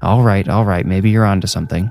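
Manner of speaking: ordinary delivery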